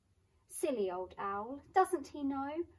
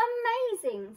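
amazed; 12 semitones higher, 7 dB louder than usual. Acted. Gruffalo impressed.

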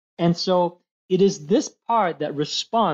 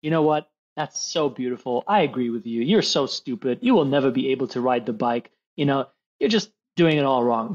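low mock-supportive parent voice; agreeing parent; 4 semitones lower than usual. Parent answering the crying daughter, mock-agreeing. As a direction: play a parent calmly agreeing, lower. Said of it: "Would you say to your daughter".

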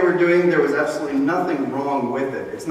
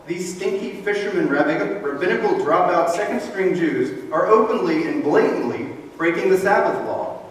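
higher, a lightly voiced scandalised accuser; mock indignant Pharisee; 3 semitones higher than usual. Pharisees telling Jesus the disciples break the law, mock indignant. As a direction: tattle on them with mock outrage. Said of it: "They're telling Jesus".

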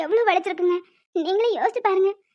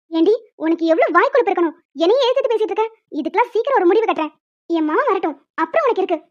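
louder, sharp threat at the daughter-in-law; threatening mother-in-law; 4 dB louder than usual. Acted. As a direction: warn her she will pay for it. (மருமகளை மிரட்டும் மாமியார், கோபமாக)

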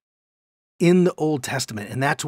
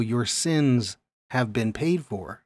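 tender; 2 semitones lower, 4 dB quieter, slower than usual. Shown as a demonstration. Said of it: "Speak tenderly to Jerusalem".

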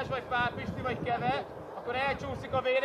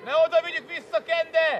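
sustained raised voice across the pitch; shouted correction; 3 semitones higher, 7 dB louder than usual. Real, not acted. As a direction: shout the explanation so distant players hear.

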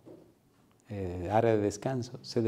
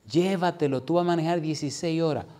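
higher-pitched coaxing mother; insistent urging; 6 semitones higher than usual. Retold or imitated. Mother nagging her son before a long drive, insistent. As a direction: press him to take it.

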